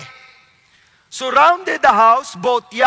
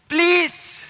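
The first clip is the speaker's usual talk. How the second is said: a pleading "please", pitched up and drawn out; pleading Lot; 5 semitones higher than usual. Acted. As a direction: Lot begging the mob at his door, in a high pleading voice. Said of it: "Nakikiusap siya".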